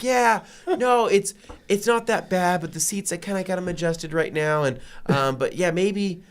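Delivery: high, politely evasive; polite deflecting. Retold or imitated. Keeping the wife away from his car, politely evasive. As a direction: let her down gently but keep her out. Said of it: "trying to be kind".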